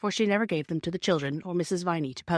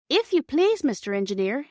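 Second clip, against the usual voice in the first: put-on raised, high girl's call over the noise; calls up to the driver, louder and higher; a little louder; 7 semitones higher, 5 dB louder than usual. A narrator's reading. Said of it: "she spoke a little louder".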